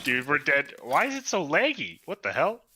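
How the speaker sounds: loud, high frantic complaint; panicked yelling. Real, not acted. Dying in game, lag.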